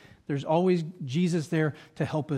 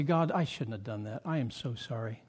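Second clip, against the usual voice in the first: soft, low confession; contrite prayer; 7 semitones lower, 7 dB quieter than usual. Acted. Believer confessing to God, soft and contrite. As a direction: lower the voice in sincere regret. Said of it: "go to God and say".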